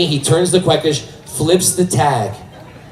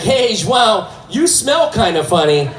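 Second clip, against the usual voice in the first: higher sing-song caregiver voice; raised-pitch nurse talk; 6 semitones higher than usual. Retold or imitated. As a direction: imitate a nurse chiding a patient. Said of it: "She's like".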